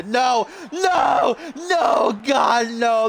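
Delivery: rising high panicked nos; dread. Real, not acted. Dreading the corner move.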